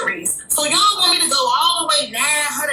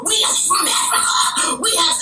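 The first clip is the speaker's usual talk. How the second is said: slower, breathy near-crying plea; mock near-tearful lady; 4 semitones higher than usual. Imitating the Pan-African lady who argued with him, near tears. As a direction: imitate her about to cry while preaching. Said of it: "preaching, and she was finna cry".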